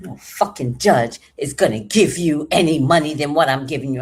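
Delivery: loud, mildly angry imitation of an ex; retold scornful outburst; scornful retort. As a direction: throw it back with loud contempt. Ex scoffs at court threat.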